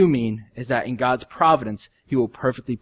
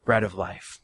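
usual speaking voice

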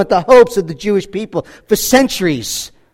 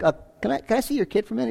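timid request; 2 semitones higher, 11 dB quieter, much faster than usual. Retold or imitated. Simeon asks Mary and Joseph.

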